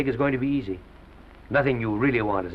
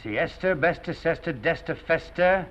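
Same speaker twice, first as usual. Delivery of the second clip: higher, sing-song list of rhymes; trying out rhymes; 6 semitones higher, slower than usual. Acted. Boss hunting a stage name, rhyming aloud in a higher voice. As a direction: run through rhyming words on a raised pitch.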